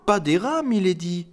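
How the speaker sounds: mild, high, gentle tone; gentle correction. Acted. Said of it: "rectifia-t-il gentiment".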